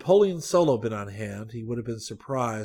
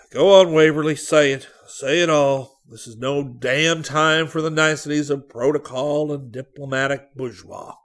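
louder, sharp impatient command; impatient demand; 5 semitones higher, 8 dB louder than usual. Acted. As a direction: push him hard to say it all. Visitor demands frankness.

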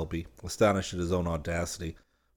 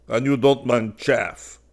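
teasing massiere; 4 semitones higher, 7 dB louder, slower than usual. A narrator's reading. Massiere teases Selby.

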